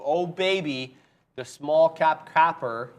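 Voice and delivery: excited. Real, not acted. Hyped about a stock moving.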